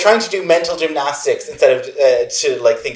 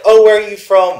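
higher, louder mock small-talk question; imitated curious questioner; 8 semitones higher, 7 dB louder than usual. Someone asking where she's from, mock curious. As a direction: put on someone else's eager asking, pitched up. Acting out a stranger's casual question.

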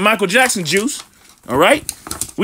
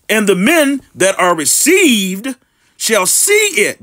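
slow, deliberate Bible reading; slow preacher's scripture read; much slower than usual. Acted. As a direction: read the verse out slowly, weighing each phrase. Reads scripture aloud.

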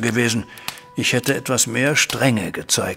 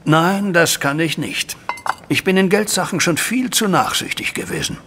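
firm refusal; 6 semitones higher than usual. Acted. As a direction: shut the son down flatly. Father refuses son's money plea. (strenge, langsame Ablehnung)

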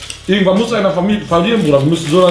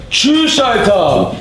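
high mock farewell; 5 semitones higher, much slower than usual. Real, not acted. Mock farewell as pain hits.

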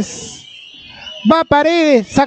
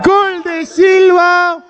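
goal shout; 3 semitones higher than usual. Real, not acted. Goal call in live commentary.

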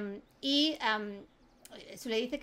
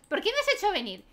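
higher, complaining: I didn't want to come; whiny reluctant cousin; 5 semitones higher than usual. Acted. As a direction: protest like a dragged-along guest. Cousins quarrel, she complains. (prima quejica y reacia)

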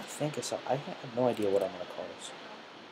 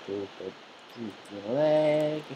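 odd drawn-out voice; much slower than usual. Real, not acted. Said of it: "I don't know why I'm talking like this".

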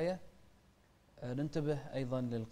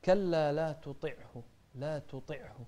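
correct recitation demo. Shown as a demonstration. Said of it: "من الأخطاء الشائعة".

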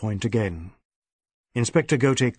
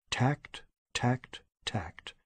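soft whisper to himself; whispered thought; 9 dB quieter, much slower than usual. Acted. Inspector calming himself in thought, whispering. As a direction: whisper it like a mantra.

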